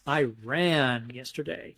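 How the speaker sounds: "ran" stressed in "I ran yesterday", said slowly; stress on the verb. Shown as a demonstration. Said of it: "our tone of voice emphasizing the verb".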